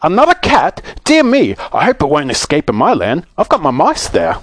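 high, fretful character voice; anxious. A narrator's reading. Saucepan man worrying about his mice, anxious and high. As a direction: fuss in mild alarm, starting very high. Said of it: "looked at him anxiously".

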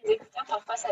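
faint, far from the mic; weak voice over a bad headset; barely audible. Real, not acted. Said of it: "je t'entends pas bien".

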